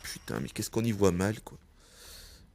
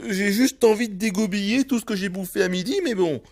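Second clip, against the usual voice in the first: sarcastic; 9 semitones higher, 5 dB louder than usual. Real, not acted. Sarcastic complaint about nausea.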